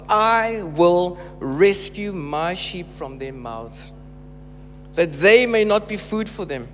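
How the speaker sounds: measured, weighty scripture reading with slowed phrases. Acted. Preacher reading Ezekiel aloud to church, measured proclamation. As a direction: proclaim God's words to the congregation.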